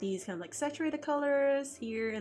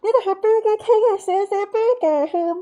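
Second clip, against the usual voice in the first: much higher, louder exasperated Cantonese clerk; 10 semitones higher, 9 dB louder than usual. Shown as a demonstration. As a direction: yell it at the clueless customer in Cantonese. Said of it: "Or I can do it in a".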